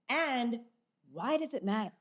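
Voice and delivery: muffled behind a hand; hand over mouth. Real, not acted. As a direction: talk into a covering hand. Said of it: "As I cover Kelly's face".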